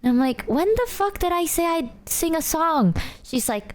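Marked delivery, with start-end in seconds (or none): 0.5-2.9 mock outrage. Confronting Mouse.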